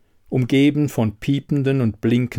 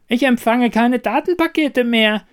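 Toaster ruft, viel höher und lauter; Rufen; 12 semitones higher, 4 dB louder than usual. A narrator's reading. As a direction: alarmiert rufen, dass nichts mehr ankommt. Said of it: "rief der Toaster". (alarmierter Ruf des Toasters, viel höher)

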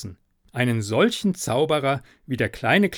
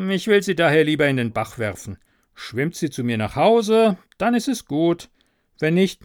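louder, staged complaint meant to be overheard; loud on purpose; 3 dB louder than usual. Acted. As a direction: say it loud so the sexton hears. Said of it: "sagte recht laut".

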